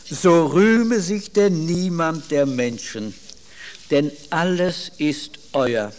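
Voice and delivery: slow, weighty reading of the verse; solemn scripture reading. Acted. Preacher reads Paul's answer to Corinth, slow and solemn. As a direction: lay each phrase down with gravity.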